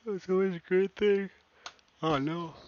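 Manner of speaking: hiccuping through the line; fighting a hiccup; suppressing hiccups. Real, not acted.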